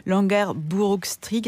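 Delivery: the Dutch street name "Langerbrugstreek" in an amateur Dutch accent. Shown as a demonstration. Radio chronicler reading a Dutch street name aloud, in a lightly attempted Dutch accent. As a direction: have a go at "Langerbrugstreek" in a self-admittedly poor Dutch accent. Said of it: "excusez mon accent hollandais".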